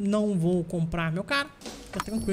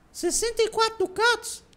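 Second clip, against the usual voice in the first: much higher, squeaky disbelief; incredulous. Real, not acted. Streamer balks at paying ransom for prisoner, incredulous high shriek.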